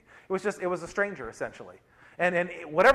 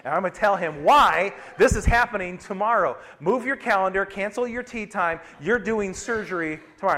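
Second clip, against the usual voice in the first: mock irritated rant; 3 semitones higher, 3 dB louder than usual. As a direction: play back your own fed-up plan, half joking. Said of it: "really irritated with the surgeon".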